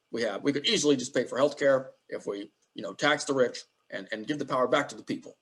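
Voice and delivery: lightly voiced senator impression; a hint of halting stump speech, kept at talking level; understated attempt at a politician's voice; Bernie Sanders. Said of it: "That's my best Bernie".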